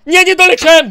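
high, loud cry of failure; sudden frustrated shout; dismayed yell. Real, not acted. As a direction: blurt it out loudly in dismay. Failed jump in game.

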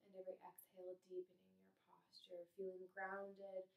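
calm, measured body-scan guidance with long pauses; guided meditation. Acted. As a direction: guide them gently through each breath and body part, unhurried. Leads gratitude body scan.

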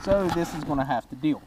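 muffled helmet mic; talking inside a helmet. Real, not acted. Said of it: "sorry I'm talking into my helmet".

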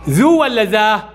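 shouted, slowed choice ذو ولا ذا with each option held; teacher shouting the question to the class; calling out the choice. Shown as a demonstration. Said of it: "ذا، لأن عليها فتحة".

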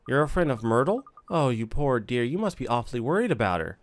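lightly voiced fussing old woman; sympathetic gossipy neighbour. Neighbour pitying Myrtle's young friend, mildly fussing. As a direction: coo a little with pity, lilting.

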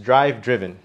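"Drive driven" as "draiv, driv-en"; vowel contrast. Shown as a demonstration. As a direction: model "Drive driven", switching from "ai" to short i. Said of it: "el sonido de la vocal cambió".

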